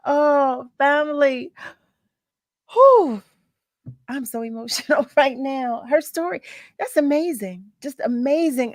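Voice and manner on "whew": relieved whew. Real, not acted. Exhaling after emotional interview.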